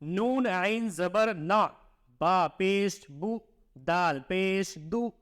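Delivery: slow sing-song letter-by-letter reading; measured teacher's drill, syllable by syllable; Qaida spelling recitation. Shown as a demonstration. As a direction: chant each letter and vowel sign for the pupil.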